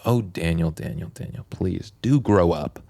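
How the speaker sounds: imitating Adrian. Mocking Adrian's posh put-down.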